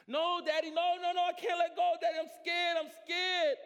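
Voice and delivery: high, loud frightened pleading; scared child. Acted. Child clinging to branch pleading with father, scared. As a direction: cry out refusing to let go.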